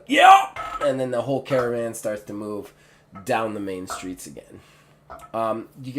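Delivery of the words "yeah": sudden high, loud yeah; cheer. Acted. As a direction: shout it out like a caravan hand. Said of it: "gives a".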